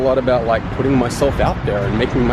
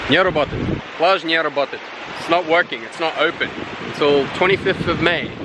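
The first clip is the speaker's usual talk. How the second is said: Russian guard; 3 semitones higher than usual. Retold or imitated. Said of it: "this security guard at the beach hotel is like".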